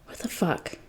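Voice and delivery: hushed, breathless disbelief under the breath; barely voiced, as if to himself; stunned whisper. A narrator's reading. Jason's shocked thought, whispered to himself.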